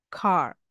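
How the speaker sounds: "car" ending with no R sound; non-rhotic "car"; R dropped. Shown as a demonstration. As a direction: leave the R off the end of "car". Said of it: "R is not pronounced properly".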